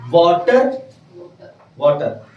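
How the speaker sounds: वाटर with its final R sounded; local pronunciation. Shown as a demonstration. Teacher shows how it is said locally, वाटर with R sounded. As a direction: say वाटर the everyday Indian way, R kept. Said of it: "ये हमारे यहाँ हो गया".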